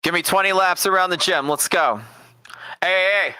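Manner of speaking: a gym teacher yelling laps through a bullhorn; megaphone gym coach. Retold or imitated. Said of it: "talking through a megaphone".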